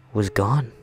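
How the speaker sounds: usual speaking voice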